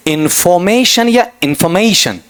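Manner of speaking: इन्फॉर्मेशन first with a full "fo", then with a weak "fuh"; two contrasted pronunciations. Shown as a demonstration. Teacher asking which to read, two contrasted pronunciations. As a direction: contrast in-fo-MAY-shun with in-fuh-MAY-shun. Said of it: "क्या पढ़ूं आपका".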